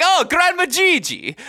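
high, loud, slow mock kids; high slow mock greeting. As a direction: sing it out like a kid greeting grandma. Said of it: "the kids aren't walking in and be like".

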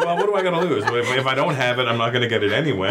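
high, amused retelling of his reasoning; laughing bravado. Retold or imitated. Telling the host, laughing, why he went for it.

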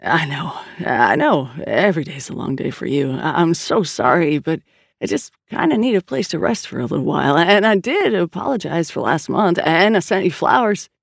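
a hint of a contrite, wheedling kid brother; lightly voiced apologetic brother. Brother begs his tired sister for somewhere to rest, mildly apologetic. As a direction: apologize lightly, then angle for a favor.

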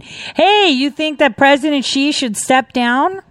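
high, incredulous mock question; mock reporter. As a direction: ape the nosy reporter, voice up.

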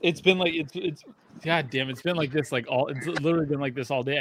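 talking through hiccups. Real, not acted. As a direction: hiccups breaking the words. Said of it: "like you are hiccuping right now".

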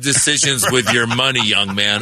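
lightly voiced stern elder scolding; a hint of a preachy father figure; mock lecture. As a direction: wag the finger at the young man. Lecturing beggar like a parent.

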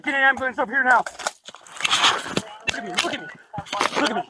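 ordinary talk

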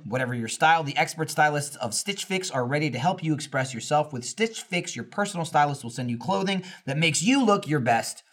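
polished podcast ad read. Real, not acted. Host pitching a styling service to listeners, ad read. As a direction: sell it with clear, measured announcer phrasing. Reads a sponsor ad.

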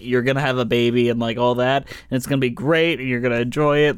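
low, understated British cynicism; cynical British. Acted. The Doctor in the London production to parents, cynical British way. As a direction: drop the pitch, deliver the promises without enthusiasm. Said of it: "he is very cynical".

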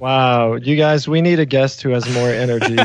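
low, dry mock apology; deadpan sarcasm. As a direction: feign disappointment, slowing down at the end. Mock apology for overenergetic guest.

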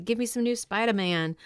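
ordinary talk

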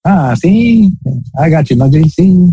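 high, old timey cartoon voice; Bugs Bunny voice. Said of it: "do that, that old, old school, old timey voice".

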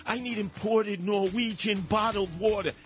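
lightly voiced fussy snob; a hint of a pampered hipster; mildly mocking a picky water snob. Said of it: "He's gonna say".

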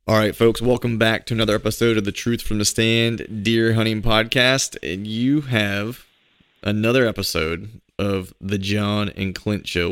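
upbeat show host welcome; podcast intro announcer. Acted. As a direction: open the show big and bright.

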